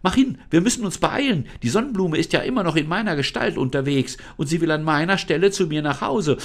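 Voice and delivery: put-on high, bright girl's voice, worried and pleading; girl Lisa, anxious. Trapped girl Lisa begs the unseen voice, high and worried.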